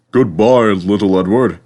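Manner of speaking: boasting. A narrator's reading. Gordon boasting to little Edward, loud and proud. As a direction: puff yourself up and show off. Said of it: "said Gordon".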